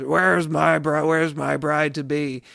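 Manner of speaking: a hammed-up villain bellowing through the house; menacing robber bridegroom. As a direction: call out like a drunk brute hunting his bride upstairs. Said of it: "the robber bridegroom is".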